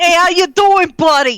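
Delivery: put-on Boston accent. Voicing the talking dog character: Boston accent. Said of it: "I got a Boston accent".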